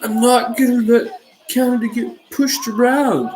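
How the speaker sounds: mock earnest politician promising to stand firm; Trudeau impression. Podcaster mocking Trudeau's tariff stance, lightly voiced politician. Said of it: "this is my Trudeau impression".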